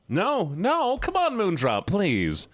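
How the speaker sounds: high, whiny protest; high-pitched playful pleading. Real, not acted. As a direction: beg them not to let you down. Begging viewer for a song.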